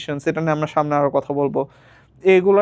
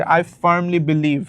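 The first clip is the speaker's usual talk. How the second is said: slow demo; much slower than usual. Shown as a demonstration. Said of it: "আর একটু expert শোনানো যায় নাকি".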